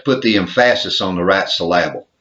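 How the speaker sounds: emphasis said as em-FASS-is, syllable as suh-LAB-ul; deliberately misplace the stress in emphasis and syllable; playfully misstressed emphasis and syllable; joking wrong stress. Pretend.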